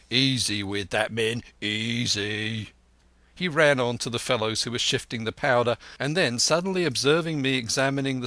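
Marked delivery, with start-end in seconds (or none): 0.1-2.7 slow, firm caution; steady the men like a stern captain; a lightly voiced captain giving orders. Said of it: "replied Captain Smollett".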